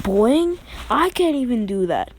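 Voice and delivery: can't believe what he just heard; mock-shocked kid voice; shocked disbelief. Bakugo shocked by Deku's workout.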